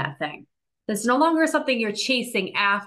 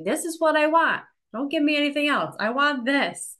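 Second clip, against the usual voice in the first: higher-pitched, emphatic declaration to the universe; insistent demand; 7 semitones higher than usual. Acted. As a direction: state your demand firmly, pitched up. Acting out telling reality her demand.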